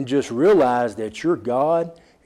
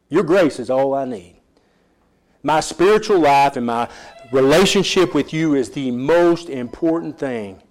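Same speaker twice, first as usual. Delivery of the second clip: pleading prayer that settles into surrender; spoken prayer. Pretend. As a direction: pray to God in earnest, then let go. Voices a believer's prayer.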